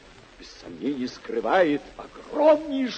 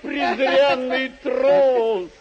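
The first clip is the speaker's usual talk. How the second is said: scornful; 5 semitones higher, much slower than usual. Acted. Knight scorns the fleeing barber.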